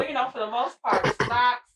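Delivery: muffled speech through a face mask; speaking into a mask, coughing; talking through a mask. Real, not acted. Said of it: "this is very hard to talk with this mask on".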